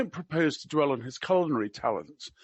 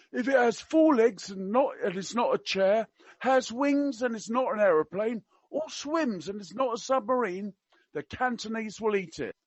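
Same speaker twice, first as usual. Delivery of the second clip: higher-pitched mock-Cockney list; attempted Cockney; 6 semitones higher than usual. Quoting the prince to his hosts in China, in attempted Cockney. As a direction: reel off the list in would-be Cockney. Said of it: "I can't do Cockney. I will try my best".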